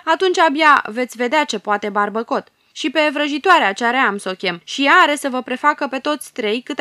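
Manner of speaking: the cowardly ruler threatening with his army. Acted. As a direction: bluff with threats you can't back up. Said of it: "amenință".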